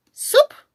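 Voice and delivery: "suboficial" in isolated beats: sup... o... fi... cial; students' wrong split of "suboficial", each syllable separate. Retold or imitated. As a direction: chop "suboficial" with long pauses, sub on its own. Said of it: "Se paran en sílaba y dicen".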